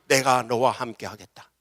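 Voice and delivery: lightly voiced God, falling end; God's understated promise. God's promise begins low, then builds.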